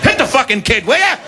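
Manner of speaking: laughing, rising to a high squeak; exasperated plea. Retold or imitated. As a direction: urge her on, half laughing. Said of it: "I'm like".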